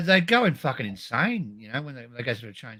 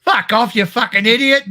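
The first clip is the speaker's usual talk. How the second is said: swearing tirade; 4 semitones higher, 9 dB louder than usual. Acted. Friend's mock-outraged reply.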